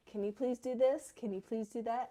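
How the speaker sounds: lightly acted pleading with a child; coaxing parent. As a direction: imitate a mom asking every possible way. Acting out coaxing her son.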